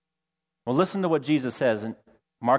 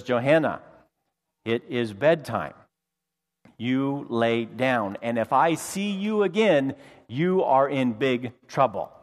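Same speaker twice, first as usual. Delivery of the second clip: stern mom; 2 semitones lower, slower than usual. Retold or imitated. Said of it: "and says".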